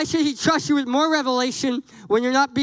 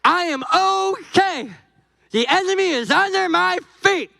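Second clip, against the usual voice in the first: higher, bright put-on confidence; fake cheerful; 7 semitones higher than usual. Churchgoer mock cheerful, pretending all is okay. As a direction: sound fine while pretending.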